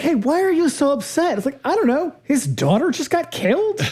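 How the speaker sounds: high, sarcastic back-and-forth; mock them with incredulous sarcasm. Mocking the wife and Dom.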